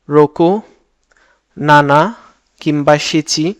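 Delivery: each number said alone with long pauses between; a teacher saying every number slowly for the class to repeat; repeat after me. Shown as a demonstration. Teacher leads students through Japanese numbers, one at a time. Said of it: "চলুন আমার সাথে একবার করে বলেন".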